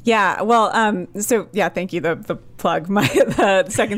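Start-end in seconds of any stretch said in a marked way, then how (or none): 2.0-4.0 laughing. Real, not acted. Laughing while plugging own podcast.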